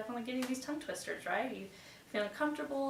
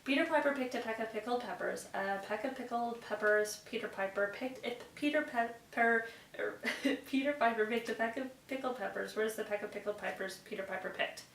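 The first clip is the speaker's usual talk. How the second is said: fast tongue twister. Shown as a demonstration. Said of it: "see if I can do it without messing up".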